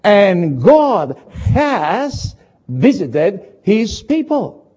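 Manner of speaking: slow, weighty scripture reading; solemn slow reading. Acted. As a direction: read it out like holy writ. Preacher reads scripture slowly.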